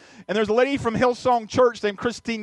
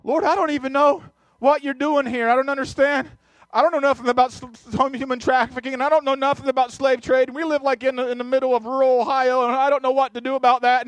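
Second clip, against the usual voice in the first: higher, earnest and bewildered plea; pleading prayer; 5 semitones higher than usual. Retold or imitated. Pastor praying in bed, higher, earnest and pleading. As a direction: pour it out to God, lost.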